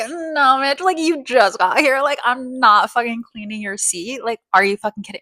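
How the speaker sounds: imitating the busser laughing her off; laughing in her face. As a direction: laugh at her as you refuse. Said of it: "laughed in her face".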